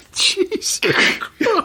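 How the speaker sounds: breathless, very high, slow gasp of disbelief; shocked. Real, not acted. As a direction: gasp it out, truly scandalised. Shocked by the story.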